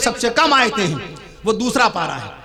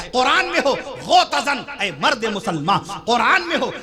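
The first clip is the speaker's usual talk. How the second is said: poem recitation. Real, not acted. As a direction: recite the couplet line by line.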